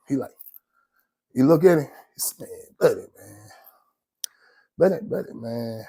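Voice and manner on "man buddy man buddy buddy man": put-on old school Atlanta accent. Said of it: "He talk like old school Atlanta".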